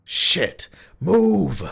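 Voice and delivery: sharp curse, then a high yelled move; panicked warning shout. A narrator's reading. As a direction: yell at everyone to get out. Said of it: "someone shouted".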